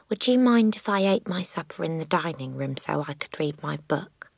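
put-on soft, meek child asking permission; polite little girl. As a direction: ask your mother gently.

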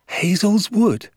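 very high, drawn-out disbelief; loud, slow, high-pitched amazement; astonished cry. A narrator's reading. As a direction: echo it as a shocked child. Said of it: "I cried".

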